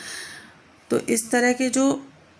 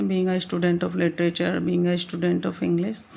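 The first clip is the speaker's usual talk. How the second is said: slow, emphatic; 2 semitones lower, much slower than usual. Shown as a demonstration. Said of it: "stresses a point".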